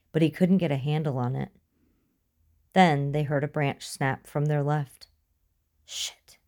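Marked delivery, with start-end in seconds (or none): 5.8-6.4 very soft, voiceless whisper; whispered curse. A narrator's reading. Hiding after a branch snaps nearby, whispered curse. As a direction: swear under your breath. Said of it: "he whispered".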